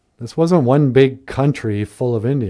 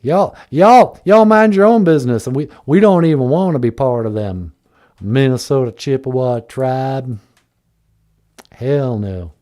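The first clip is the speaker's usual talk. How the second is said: mock southern accent. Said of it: "I can't do the accent".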